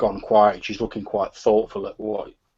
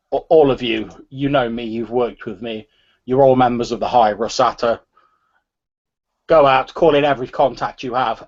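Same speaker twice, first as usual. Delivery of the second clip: measured speech with firm emphasis; lightly voiced rallying leader; 2 semitones higher, 5 dB louder than usual. Gang leader asks the crowd to find the culprit, mildly rousing. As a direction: lightly act a leader addressing her people.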